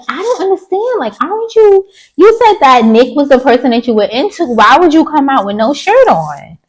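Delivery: high, disbelieving questions at Shanice; incredulous question. Retold or imitated. Asking Shanice why, in high disbelief.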